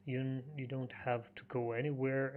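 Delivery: usual speaking voice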